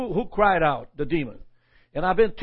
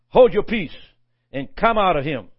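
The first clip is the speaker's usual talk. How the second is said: stern rebuke; 5 dB louder than usual. Retold or imitated. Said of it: "And Jesus rebuked him, saying".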